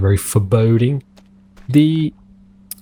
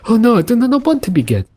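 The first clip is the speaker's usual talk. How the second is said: mock alarm; 11 semitones higher, faster than usual. Mock reply to pretend shark threat.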